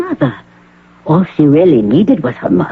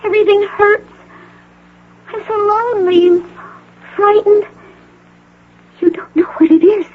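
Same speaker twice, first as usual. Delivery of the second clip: tearful. Acted. Patient pleading, near tears.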